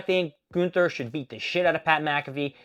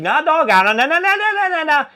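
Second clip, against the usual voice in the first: mock brush-off; 11 semitones higher, 6 dB louder than usual. Rusev refusing Cesaro.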